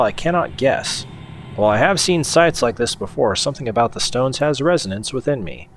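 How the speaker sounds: measured story narration; journal read-aloud. Acted. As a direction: read it out like a character's written journal. Reads the journal entry aloud.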